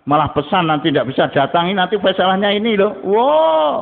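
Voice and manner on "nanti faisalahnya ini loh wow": high mocking voice for an angry leader; mock outrage, voice jumping high. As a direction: mimic the proud leader who wants his way.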